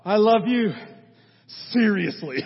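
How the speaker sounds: put-on loud, exasperated grown child to mom; irritated. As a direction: imitate an irritated kid protesting to mom. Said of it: "You're a little bit irritated".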